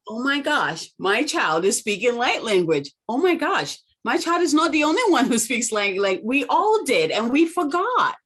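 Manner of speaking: high-pitched, astonished outburst; amazed realization. Acted. Mother realizing all children speak light language, amazed. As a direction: exclaim it like a sudden revelation. Acted quote of amazed parents.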